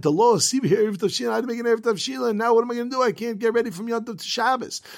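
worried plea. Retold or imitated.

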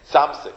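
Tzamzik said for Tzvanzik, the v dropped; mispronounced twenty. Retold or imitated. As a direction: Tzamzik clipped, as a simple man mangles the word. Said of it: "he just couldn't pronounce Tzvanzik".

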